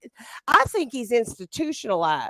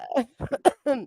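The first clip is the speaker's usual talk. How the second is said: coughing fit. Real, not acted. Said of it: "sorry, I got worked up".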